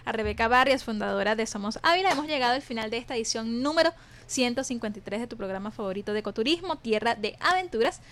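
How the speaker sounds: projected radio presenter closing read; radio sign-off. Acted. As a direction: sign the show off like a radio announcer, lifting at the goodbye. Radio host reads the closing credits.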